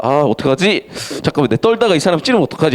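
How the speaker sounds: fast, panicky fretting; hurried mock panic; flustered panic. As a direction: rattle it off like a nervous robber. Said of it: "이러면서".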